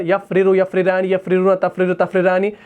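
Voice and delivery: यफ़रिरान tripping on the doubled र; stumbling tongue. Shown as a demonstration. Teacher showing students how the conjugation stumbles. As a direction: let the tongue catch on each र र. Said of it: "तो ज़ुबान जो है वो लड़खड़ा जाएगी".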